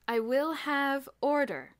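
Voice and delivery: slow, stern headmaster command; quiet authority. A narrator's reading. Mister Sturgeon silencing the crowd, slow and stern. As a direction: command order without raising your voice. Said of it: "a quiet voice penetrated the din".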